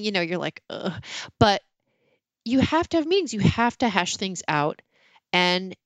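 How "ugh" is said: mock groan of distaste; cringing groan. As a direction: let out a short cringing "ugh". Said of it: "it's cringeworthy".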